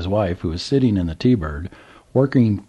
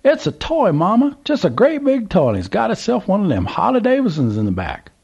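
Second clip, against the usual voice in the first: put-on old man yelling to wife; 12 semitones higher than usual. A narrator's reading. Old man yells to his wife in the T-Bird. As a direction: shout it over to Mama in the car. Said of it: "and yelled".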